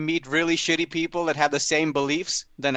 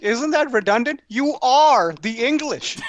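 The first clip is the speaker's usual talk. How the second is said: higher, slowing on the last words; puzzled sarcastic question; mock incredulous; 6 semitones higher, 4 dB louder, slower than usual. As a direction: spell out the obvious. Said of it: "I was like".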